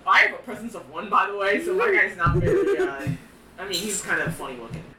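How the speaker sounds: muffled mask voice; through a gas mask. Real, not acted. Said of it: "Why did his voice change all of a sudden".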